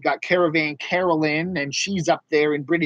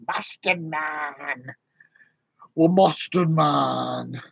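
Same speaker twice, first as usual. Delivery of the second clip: slow mock greeting; much slower than usual. Slow put-on voice greeting viewer.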